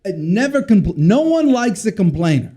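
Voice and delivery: lightly voiced French Jewish accent; a hint of dad's French Jewish accent. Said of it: "in his little French Jewish accent".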